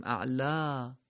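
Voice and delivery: اعلا with a long final ā; lengthened ending. Shown as a demonstration. Teacher showing the pausal reading. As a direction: stretch the end of اعلا. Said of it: "ولی باید بخونیم".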